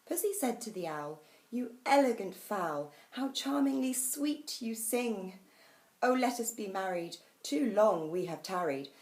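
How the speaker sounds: put-on animated children's rhyme recital; lively poem reading. A narrator's reading. Host reading a nice children's poem to guests, lively recital. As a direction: read it with bouncy, measured expression.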